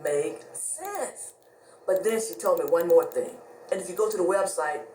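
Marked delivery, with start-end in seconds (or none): 0.0-1.3 slow disbelief. Retold or imitated. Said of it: "I was like".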